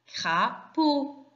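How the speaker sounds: "Crapaud" in two separate syllables, cra, then paud. Shown as a demonstration. Teacher showing pupils the two syllables, "Crapaud" said in separated parts. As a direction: split "Crapaud" cleanly after cra, with a short pause. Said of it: "il y a deux syllabes".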